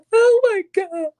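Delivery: laughs out an overwhelmed oh my God; a real burst of laughter over the words; laughing. Real, not acted. Laughs about crying on camera.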